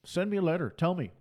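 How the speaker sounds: usual speaking voice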